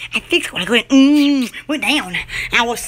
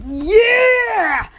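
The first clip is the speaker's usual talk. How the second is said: sudden excited cry; excited squeal; 4 semitones higher than usual. Real, not acted. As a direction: squeal it with delight. Excited squeal showing off pet.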